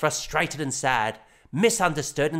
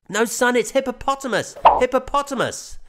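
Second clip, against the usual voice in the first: lightly raised, corrective dad voice; patient father; 11 semitones higher, 5 dB louder than usual. A narrator's reading. Father correcting son's word, light patient dad voice. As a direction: correct him gently like a dad.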